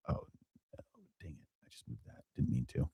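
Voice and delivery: barely audible grumble to himself; very soft self-directed aside; muttered aside. Real, not acted. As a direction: mutter it under your breath. Muttered aside after moving chart.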